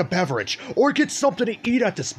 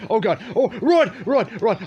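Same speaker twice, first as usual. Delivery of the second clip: being chased; 4 semitones higher than usual. Real, not acted. Players chasing him.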